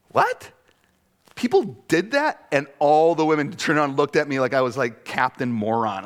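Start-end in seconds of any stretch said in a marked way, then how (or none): 0.1-2.5 high, loud gasp of surprise; shocked disbelief. Retold or imitated. Pastor retells his shocked reaction among the women, high and loud. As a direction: react like it's news to you. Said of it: "And I'm like".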